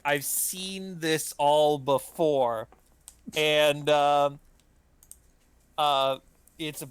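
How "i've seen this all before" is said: slow, bored know-it-all; unimpressed drawl. Retold or imitated. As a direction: say it like you've seen it all. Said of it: "walk over to the bookcase like".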